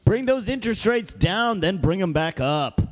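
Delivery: high slow voice. Acted. Mock financial advice.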